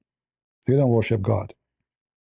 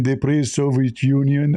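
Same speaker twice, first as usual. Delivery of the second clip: slow mocking repeat. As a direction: slowly repeat the claim with disbelief. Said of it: "Are you sure?".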